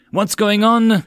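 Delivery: loud, high, urgent demand; alarmed shout. Acted. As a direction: call out in alarm. Ship attacked, she demands answers.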